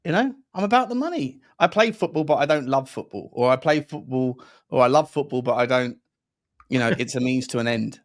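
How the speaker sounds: a hint of a mercenary footballer; money-minded player. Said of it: "some players are just like".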